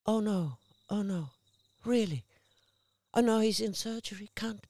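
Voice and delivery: mildly dramatised dismay at bad news; acted alarm. Acts out shocked phone call.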